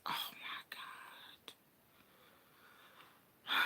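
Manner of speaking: breathless whisper of craving; whispered oh my God. Real, not acted. A woman dreaming of her favorite candy, whispering. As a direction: whisper it like a guilty pleasure.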